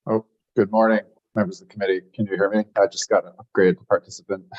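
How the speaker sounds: choppy breaking-up call audio; glitchy robotic call. Real, not acted. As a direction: speak through a glitchy, breaking call line. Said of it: "your audio is breaking up there".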